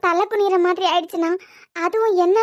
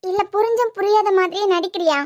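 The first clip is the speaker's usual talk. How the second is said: raised, crying reproach; tearful pleading; 3 semitones higher than usual. Acted. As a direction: plead through tears, voice lifting. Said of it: "மொத அழாம பேசு".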